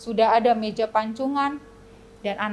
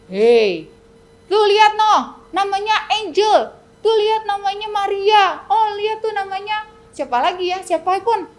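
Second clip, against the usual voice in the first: loud, higher jeering devil; devil mocking; 7 semitones higher, 6 dB louder than usual. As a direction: taunt like a sneering devil. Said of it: "Tapi si iblis bilang". (iblis mengejek dengan suara tinggi)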